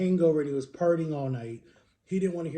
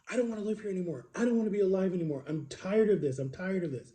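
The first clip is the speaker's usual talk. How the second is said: retold distressed outburst, starting higher and settling; angry and scared; 4 semitones higher than usual. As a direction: relive the fed-up, frightened protest at moderate volume. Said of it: "I'm so angry and I'm so scared".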